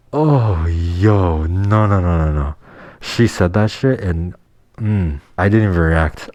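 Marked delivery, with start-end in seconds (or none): 0.1-2.5 stunned disbelief. Real, not acted. Disbelief after her confession.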